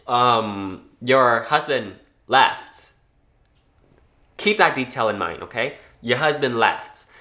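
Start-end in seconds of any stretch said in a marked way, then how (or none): 6.0-7.1 blunt, curt delivery of the news; rude. Shown as a demonstration. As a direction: say it flatly and rudely. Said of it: "I didn't say it rudely like that".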